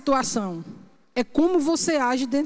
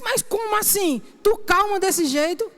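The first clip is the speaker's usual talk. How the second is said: incredulous nephew; 5 semitones higher than usual. Retold or imitated. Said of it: "Ele disse".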